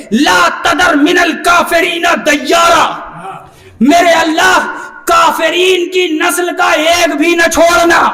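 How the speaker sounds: ringing pulpit oratory with emphatic recitation; forceful preaching. Acted. Preacher recounts Noah's plea to God, forceful preaching. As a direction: declaim it to a roused congregation.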